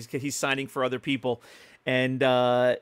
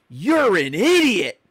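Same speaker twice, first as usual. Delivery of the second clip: laughing insult; 6 semitones higher, 7 dB louder, slower than usual. Retold or imitated. Retelling celebrity's insult.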